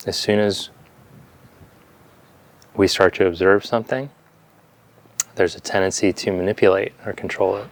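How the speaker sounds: calm meditation guidance with long silences between phrases; unhurried yoga teacher leading breath awareness; guided meditation. Real, not acted. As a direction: guide them gently into stillness, leaving space after each phrase.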